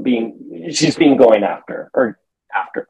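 tipsy, stumbling over words. Real, not acted. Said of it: "I'm so drunk right now".

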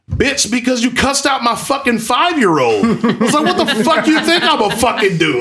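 high, indignant mock outburst with a laugh; retold angry comeback. Dad answering the hostile driver, high mock-indignant retort. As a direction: fire back in exaggerated outrage, half laughing.

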